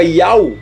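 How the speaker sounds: "Yau" with A gliding straight into U; "Yau" in one piece, no H between; wrong pronunciation. Shown as a demonstration. Teacher showing what omitting the H gives, "Yau" run together. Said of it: "pra colocar como se isso aqui fosse um A".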